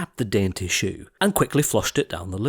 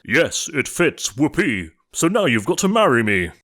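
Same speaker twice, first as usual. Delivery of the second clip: gleeful ugly sister; 3 semitones higher, 3 dB louder than usual. A narrator's reading. Ugly sister screaming with glee at the prince. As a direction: crow it in triumph. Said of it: "But she screamed".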